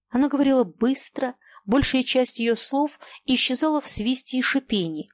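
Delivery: ordinary delivery, nothing marked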